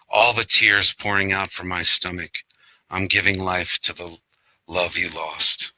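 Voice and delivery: recited verse in even, measured lines; poetry reading. Acted. Poet reads to an online audience of lost Sarah, poetry reading. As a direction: read it as a poem, pausing between lines. Reads own poem aloud.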